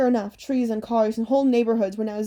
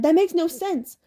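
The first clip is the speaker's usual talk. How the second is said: higher-pitched, exasperated objection; baffled protest; 7 semitones higher, 4 dB louder than usual. A narrator's reading. Boy objecting to the numbers he was given, baffled protest. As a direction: object in a raised, incredulous voice.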